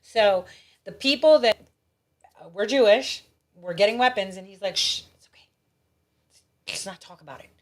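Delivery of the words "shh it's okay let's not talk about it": whispered shush dropping into very soft speech; imitated hushing. Mimicking Churchill hushing up talk of weapons, conspiratorial hush.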